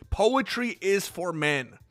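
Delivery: mock-serious verse with pauses between lines; poem recital. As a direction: recite it line by line as a comic poem. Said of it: "my next poem, it starts with".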